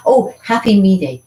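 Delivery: bright cheery high call of happy Me Day; excited greeting. Real, not acted. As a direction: announce the day with delight. Celebrating Me Day.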